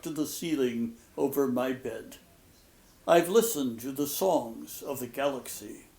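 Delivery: measured, unhurried poetry reading; poem reading. Acted. Lecturer reads a wedding poem to students, measured and unhurried. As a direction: let each line settle before the next.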